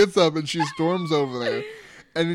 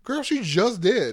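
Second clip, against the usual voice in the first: exasperated; 4 semitones higher, 3 dB louder, slower than usual. Retold or imitated. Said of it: "I'm just like".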